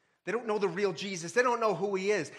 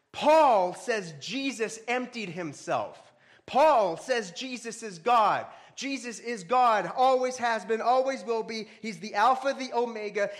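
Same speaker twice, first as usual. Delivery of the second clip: preacher building to a loud climax; emphatic proclamation; 5 semitones higher, 5 dB louder than usual. Acted. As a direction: declare it from the pulpit. Preacher declaring Jesus is God.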